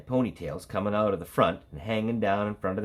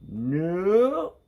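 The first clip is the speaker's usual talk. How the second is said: high, loud stubborn refusal; a child digging in her heels; stubborn nope; 10 semitones higher, 5 dB louder than usual. A narrator's reading. Stephanie refusing a third time, high stubborn nope.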